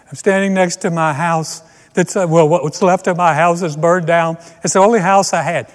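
hammed-up distraught homeowner; homeowner at the scene. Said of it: "a man who is standing".

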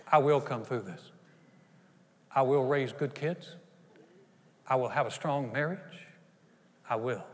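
settled, sincere promise; calm resolve. Acted. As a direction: state each vow with steady conviction. Models calm resolve against doubt.

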